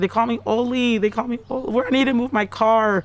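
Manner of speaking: insistent, high-pitched retold reply; retold frantic babble. Retelling her dazed frantic reply.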